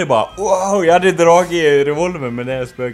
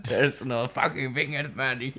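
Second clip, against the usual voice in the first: Vernon Dursley; 9 dB quieter than usual. Retold or imitated. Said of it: "Vernon Dursley".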